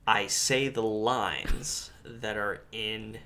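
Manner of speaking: mock-solemn actor, dropping to a hush; Ian McKellen impression. Host retelling Ian McKellen's Extras cameo, mock-solemn hush. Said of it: "and he's like".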